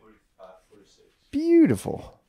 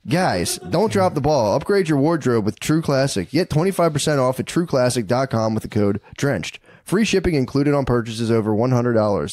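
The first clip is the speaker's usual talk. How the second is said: promo code sales pitch; podcast ad read. Real, not acted. Host gives listeners the discount code, ad read.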